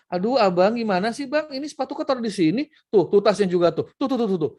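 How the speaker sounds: fussy mum scolding her son, high and insistent; nagging mother. Retold or imitated. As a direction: nag and point at every mess.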